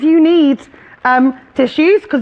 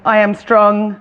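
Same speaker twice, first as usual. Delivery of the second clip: reciting a mantra; 3 semitones lower than usual. Shown as a demonstration. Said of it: "just a mantra to remember that".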